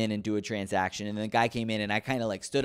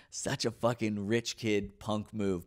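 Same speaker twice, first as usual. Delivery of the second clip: amused self-mockery; 2 semitones lower, 7 dB quieter, slower than usual. Real, not acted. Laughs at own remembered cheek.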